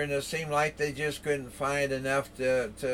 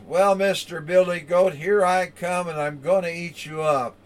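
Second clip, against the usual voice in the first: lightly voiced troll, raised and louder; mock menace for a story listener; threatening troll; 3 semitones higher, 4 dB louder than usual. Troll threatens big goat.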